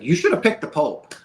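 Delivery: retold yell at God. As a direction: fling it at God in retelling. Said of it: "kinda yelling at God".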